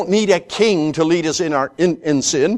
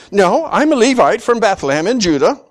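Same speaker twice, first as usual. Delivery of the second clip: blunt Levite; 4 semitones higher, 4 dB louder than usual. Retold or imitated. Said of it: "Is that what he says?".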